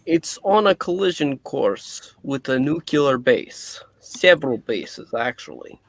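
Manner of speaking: put-on light Russian accent scientist; a Russian doctor, lightly voiced. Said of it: "maybe my Russian accent will go too".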